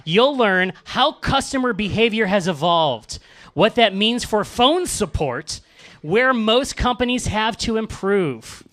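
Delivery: slow, measured robotic email read; computer voice. Acted. Host reads the webinar pitch, slow mock computer voice. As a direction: drag each phrase out like a machine reading. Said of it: "in a computer voice".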